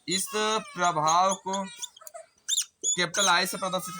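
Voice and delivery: very slow, drawn-out words; slow dictation. Real, not acted. Teacher repeats the term for students while writing it, slow dictation. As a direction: stretch each word out as if writing along.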